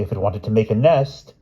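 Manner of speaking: queen reasoning with her husband; the Queen, logically. Acted. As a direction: explain it like fact to a fool. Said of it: "said the Queen logically".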